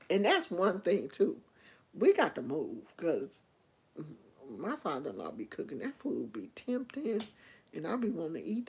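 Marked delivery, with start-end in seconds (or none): none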